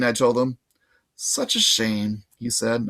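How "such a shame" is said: slow bellhop voice. Acted.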